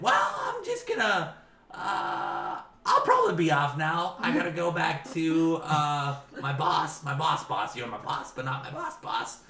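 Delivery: high, loud, stammering goblin; flustered goblin lackey voice; nervous goblin. Acted. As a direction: make squeaky excuses to get away from the boss. Goblin makes excuses to leave.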